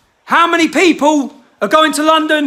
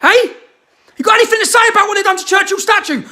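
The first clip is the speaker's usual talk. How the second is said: fast, higher, shouted challenge; angry shout; 5 semitones higher, faster than usual. Real, not acted. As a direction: fire the question at them like an accusation. Angry rant at celebrities.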